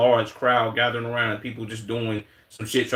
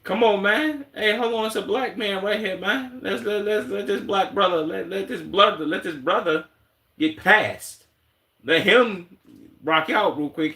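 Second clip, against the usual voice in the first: excited calling out; 8 semitones higher than usual. Real, not acted. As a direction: urge the crowd to let him through. Calling out for a man to pass.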